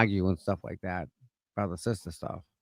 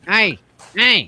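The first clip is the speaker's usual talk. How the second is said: yelling across the room; 9 semitones higher, 6 dB louder than usual. Pretend. Mimicking a coworker shouting.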